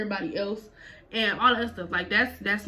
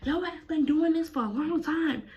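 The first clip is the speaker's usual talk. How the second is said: imitating mama; 8 semitones higher than usual. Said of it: "She like".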